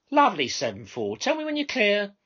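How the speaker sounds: high, loud call into the mic; controller on the radio. Acted. Minicab controller calling her driver by microphone. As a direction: summon the driver over the radio.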